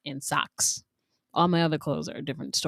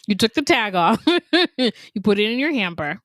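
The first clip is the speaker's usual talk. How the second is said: laughing; 5 semitones higher, 4 dB louder than usual. Real, not acted. Laughing while accusing.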